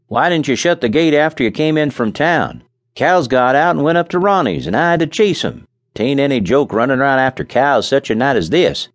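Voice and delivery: venting about chasing cows; Charlie's voice. A narrator's reading. Charlie grumbles to his partner about the cows.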